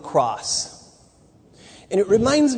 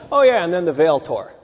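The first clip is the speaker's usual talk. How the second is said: tossed off casually, like a footnote; offhand aside. Shown as a demonstration. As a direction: say it as a throwaway aside. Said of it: "It can't be just an aside like".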